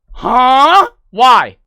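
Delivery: high, loud, incredulous query; shocked disbelief. Retold or imitated. Streamer retelling reaction to friend's bad news, shocked disbelief. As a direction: jump up high and loud in alarm.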